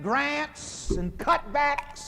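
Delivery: mock disbelief. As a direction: voice the skeptic's doubt, rising.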